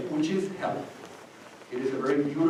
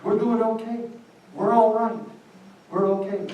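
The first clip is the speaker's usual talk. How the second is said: emphatic reassurance; 8 semitones higher, 4 dB louder than usual. Real, not acted. Insisting we're fine.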